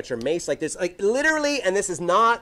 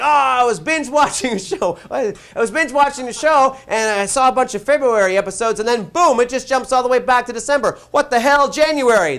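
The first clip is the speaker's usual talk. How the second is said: baffled viewer; 5 semitones higher, 5 dB louder than usual. Retold or imitated. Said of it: "some people were like".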